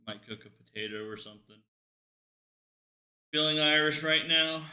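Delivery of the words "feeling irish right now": put-on louder stab at an Irish accent; half-hearted Irish accent; mock Irish accent. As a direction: try on a rough Irish accent. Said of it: "haven't heard anything out of an Irish person".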